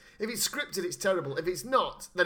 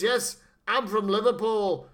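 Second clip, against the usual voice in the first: mock northern accent; 2 semitones higher, 5 dB louder, slower than usual. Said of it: "she doesn't sound like she's from Liverpool".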